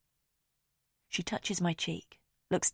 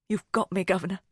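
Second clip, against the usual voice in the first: put-on silly Cockney accent; 2 semitones higher, 4 dB louder than usual. A narrator's reading. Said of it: "in a silly Cockney accent".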